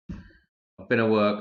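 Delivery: slow, mid-yawn words. Real, not acted. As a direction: stretch it out through a yawn. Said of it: "I'm yawning away like a mug".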